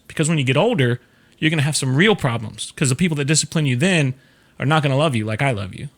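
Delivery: put-on calm, measured explanation to a child; calm parent. Shown as a demonstration. Parent explaining discipline to little Johnny, calm. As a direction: explain it evenly, without anger. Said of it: "you're calm and you're like".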